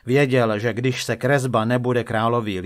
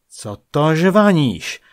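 loud, slow, raised rebuke; angry outburst; 5 semitones higher, 7 dB louder, slower than usual. A narrator's reading. King pounding the table at the painter, loud and angry. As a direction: demand it with royal fury. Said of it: "udeřil král pěstí o stůl".

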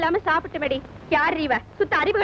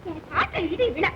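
melengking tinggi, meratap seperti ratapan duka; wailing lament; 2 semitones higher than usual. Acted. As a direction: meraung sedih, suara tinggi dan merintih. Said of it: "ஏன் இப்படி ஒப்பாரி வைக்கிற?".

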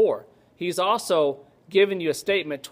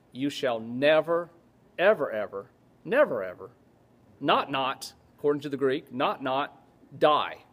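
"never, ever" stepping down in spaced pairs; emphatic prohibition; 2 semitones lower than usual. Retold or imitated. Preacher voicing Jesus's promise from the Greek, emphatic prohibition. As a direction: drop each "not, not" deliberately, pausing before "die". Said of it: "It's a very strong prohibition".

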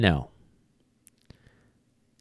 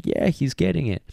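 much higher, delighted owner; happy handler; 8 semitones higher than usual. Retold or imitated. Trainer imitating a handler thrilled with the dog, excited. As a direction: gush like a proud owner. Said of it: "the handler gets all happy".

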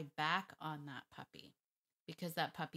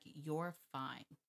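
firm calm tone; 2 semitones lower, 4 dB quieter than usual. Shown as a demonstration. Trainer showing the tone for her dog, calm and firm. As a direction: state it evenly as a quiet correction. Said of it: "In that tone".

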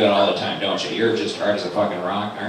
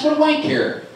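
high-pitched irate demand; slow it down, loud and high, fed up; exasperated outburst; 3 dB louder, slower than usual. Acted. Man telling his buddy off over chips, exasperated yell.

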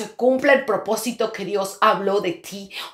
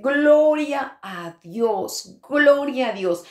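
joyful praise; 3 semitones higher, much slower than usual. Retold or imitated. Rejoicing at sister's news.

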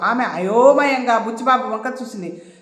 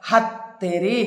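mild surprise; 3 semitones lower, much slower than usual. A narrator's reading. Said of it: "ఆశ్చర్యంగా మొహం పెట్టి".

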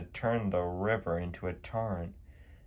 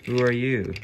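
surprised; 5 semitones higher, 6 dB louder than usual. A narrator's reading. Startled by unknown new diesel.

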